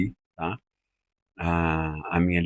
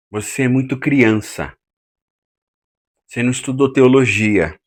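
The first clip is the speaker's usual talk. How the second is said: dismissive put-down; 4 semitones higher, 4 dB louder than usual. Shown as a demonstration. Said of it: "você diz assim".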